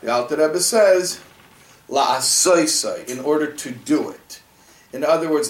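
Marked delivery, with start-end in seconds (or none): 1.9-3.1 La'asoseh stretched out slowly; emphasis on La'asoseh. Shown as a demonstration. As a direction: give "La'asoseh" weight as the answer. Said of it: "that last word in the whole".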